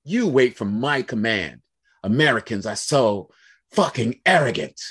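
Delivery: a hint of a scornful manager; imitating boss's contempt. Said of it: "he literally said to me".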